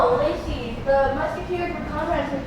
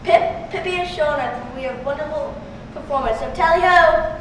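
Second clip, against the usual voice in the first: attempted British accent with a bit more pep; peppier British accent. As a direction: try a mildly pepped-up British announcement. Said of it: "Just pep it up a little".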